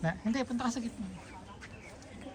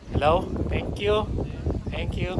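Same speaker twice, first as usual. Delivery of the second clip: echo. Real, not acted. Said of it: "may echo".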